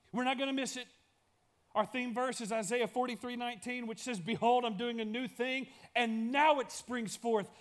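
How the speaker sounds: rally the room into a vow; full-force preacher leading a pledge; fervent preaching. Acted. Congregational vow refrain.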